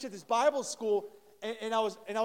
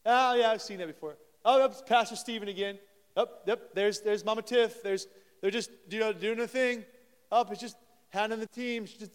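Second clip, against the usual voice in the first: mock jaded tone, a bit louder; bored dismissive churchgoer; 4 dB louder than usual. Pastor mimics a jaded churchgoer, louder, mock bored. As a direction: brush it all off like old news.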